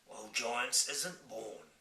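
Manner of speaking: slow giant voice. Acted. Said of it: "the B F G answered".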